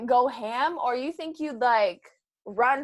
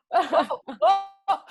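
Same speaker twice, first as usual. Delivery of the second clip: high, louder mock gasping "oh"s; imitated frightened cries; 7 semitones higher, 6 dB louder than usual. Acting out her fright when lights went out, mock panicked cries. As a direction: mimic short panicked yelps. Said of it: "I also screamed".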